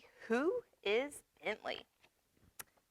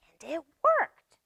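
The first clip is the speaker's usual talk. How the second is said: louder, higher, slow and thrilled; triumphant reveal; 8 semitones higher, 9 dB louder, slower than usual. Acted. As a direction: savour the big moment for the kids. Triumphant turn in story.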